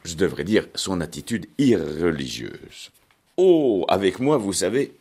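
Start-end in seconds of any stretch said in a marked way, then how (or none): 3.4-4.9 a lightly voiced giddy young woman, starting high; breezy, careless girl brushing it off; a hint of a silly young typist; Arlette's reply. A narrator's reading. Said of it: "répondit-elle".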